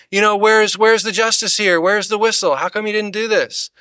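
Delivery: hammed-up demand for fairness; mock demanding justice. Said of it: "how many people treat God".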